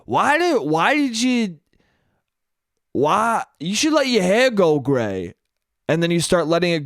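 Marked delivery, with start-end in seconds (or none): 0.1-5.3 imitated halting, higher-pitched suggestion; nitpicking husband. Husband advises wife about her hair, lightly nitpicking. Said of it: "If your husband says to you".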